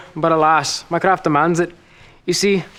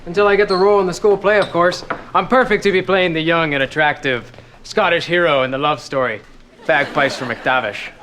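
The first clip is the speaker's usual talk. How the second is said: put-on Scottish accent. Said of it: "that ridiculous accent".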